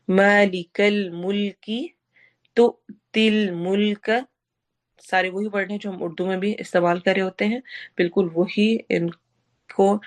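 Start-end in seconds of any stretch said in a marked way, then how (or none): 0.1-4.3 slow, Urdu-like vowels; Quran recitation. Shown as a demonstration. Teacher reciting familiar words for students, slow. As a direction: recite slowly and naturally. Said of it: "वैसे ही आवाज होगी जैसे कि हम उर्दू में".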